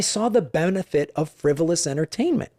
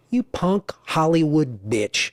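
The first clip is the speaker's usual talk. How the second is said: seething insult; slower than usual. Retold or imitated. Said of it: "I was saying".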